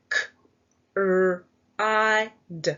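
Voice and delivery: each sound said apart with a pause between. Shown as a demonstration. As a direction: segment "K, R, I, D" one at a time. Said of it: "let's sound out our word".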